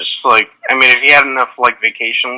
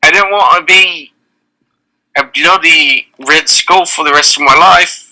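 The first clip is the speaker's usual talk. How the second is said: put-on Cockney accent; 3 semitones higher, 3 dB louder than usual. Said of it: "that's a Cockney accent".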